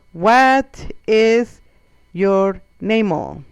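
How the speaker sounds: loud, drawn-out words with an O stuck on; foreigner-directed yell. Retold or imitated. Locals talking to a foreigner, mock scream. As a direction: shout it word by word at someone who won't understand. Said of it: "and they scream too".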